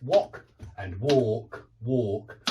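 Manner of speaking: British "walk and walk", short o then long aw; British pronunciation. Shown as a demonstration. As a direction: contrast wok and walk the British way. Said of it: "They're not in England".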